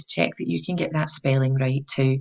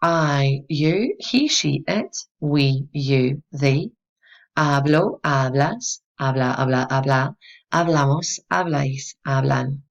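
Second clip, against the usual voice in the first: measured recitation of a verb pattern; teacher's rhythmic conjugation drill; memorization drill; slower than usual. Shown as a demonstration. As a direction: recite each form as a separate beat. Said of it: "Try saying it along with me".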